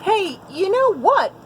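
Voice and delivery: high, loud excited call; shouting. A narrator's reading. Beaver calling to Goose with a cheerful shout. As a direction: call out gleefully. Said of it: "Beaver shouted".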